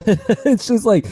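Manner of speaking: exasperated. Real, not acted. Exasperated high exclamation.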